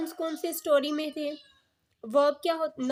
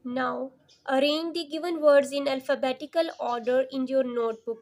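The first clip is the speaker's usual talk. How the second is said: slow, emphatic classroom reading; slow instruction read; 4 dB louder, much slower than usual. Acted. Teacher reading the exercise instruction aloud, slow and clear. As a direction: read the task out carefully and slowly.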